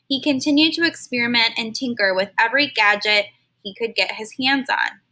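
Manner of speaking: expressive read-aloud storytelling; storybook narrator reading to kids; story narration. Acted. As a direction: read it to a class like a picture book. Reads a story to children.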